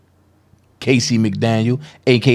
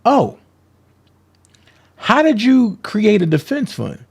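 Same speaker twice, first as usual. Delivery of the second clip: mock quote of Doug; 7 semitones higher than usual. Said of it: "Doug asked you".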